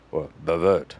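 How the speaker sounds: bavette said the French way, light French accent on the last syllable; a playful French accent on bavette, stressing vette. Shown as a demonstration. Butcher showing off the fancy name for the cut, light French accent. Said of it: "That's my French accent".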